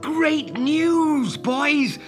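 put-on high, jubilant boyish call; excited cry. Peter lands before the boys with news, excited cry. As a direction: announce it high and triumphantly. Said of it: "he cried".

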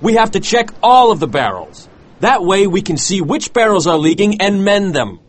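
high, urgent pleading; desperate plea. A narrator's reading. First mate pleads with captain to check barrels, desperate. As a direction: argue insistently in a high, put-on voice.

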